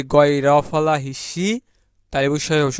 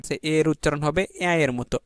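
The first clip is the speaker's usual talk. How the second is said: usual speaking voice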